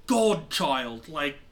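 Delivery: lightly voiced, exasperated mentor pirate; exasperated Lindell. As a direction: scold your former pupil with mild exasperation. Game master plays Lindell scolding the pirate.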